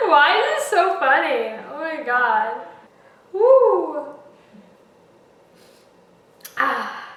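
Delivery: high, loud, crying with laughter; tearful laughing squeals; horrified amusement. Real, not acted.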